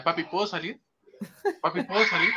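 put-on begging kid voice through laughter; laughing child imitation. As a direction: mimic a little boy asking, chuckling. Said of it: "decía".

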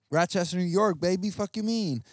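loud, proud Rochester New York accent. Shown as a demonstration. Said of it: "I'ma say Rochester in a Rochester accent".

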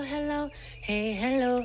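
usual speaking voice

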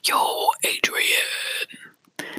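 a drawn-out, lightly voiced Rocky in a whisper. Whispering Rocky's line to the listener, slow. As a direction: stretch it out like Rocky calling for Adrian. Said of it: "I had to say it like that".

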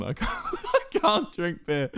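laughing through it. Retold or imitated. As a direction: break into laughter mid-line. Eleven-year-old self protesting, laughing.

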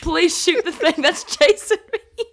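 lightly imitating a serious preacher's joke; a hint of deadpan delivery; deadpan quote. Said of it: "just the way he says it".

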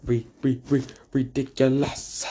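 mock stutter. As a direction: stumble on "ri-" three times before "ridiculous". Deliberate comic stutter.

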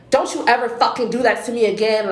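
mildly heated retelling of an angry customer; retold aggressive cursing. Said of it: "talking to me very aggressively".

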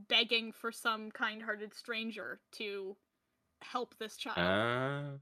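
slow, low, pitiful plea; hammed-up sorrowful begging; mock pleading. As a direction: drag it out like a pitiful orphan's plea. Dramatic plea for an orphan.

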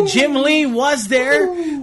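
stretched slowly for effect; slow drawn-out. Retold or imitated. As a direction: drag every word out. Host echoes slowly, drawn out.

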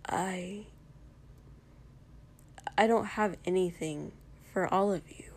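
whispered, barely voiced; quietly. A narrator's reading. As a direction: confess it under your breath. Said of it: "he said quietly".

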